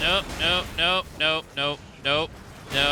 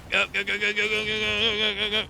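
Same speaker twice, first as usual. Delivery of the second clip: high urgent go go go; frantic urging while fleeing; being chased; 8 semitones higher than usual. Real, not acted. Fleeing enemies, urging himself.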